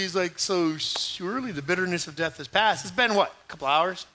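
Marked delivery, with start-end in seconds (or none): 0.4-2.8 a little cautious. Acted. Captive king Agag approaching Samuel, a little cautiously. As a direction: ease back and feel your way through it. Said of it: "coming up a little cautiously".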